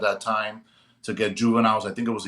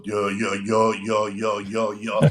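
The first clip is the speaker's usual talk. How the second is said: mock stutter; 3 semitones lower, slower than usual. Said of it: "he starts to stutter".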